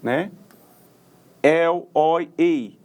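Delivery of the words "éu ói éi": "El, oi, ei" as open éu, ói, éi; open diphthongs. Shown as a demonstration. Teacher listing open diphthongs, "El, oi, ei" with open vowels. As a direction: open each vowel wide before the glide. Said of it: "os ditongos abertos".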